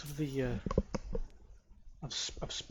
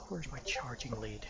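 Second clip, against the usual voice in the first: whispering; 2 semitones lower, 5 dB quieter than usual. Real, not acted. Muttering to himself mid-game.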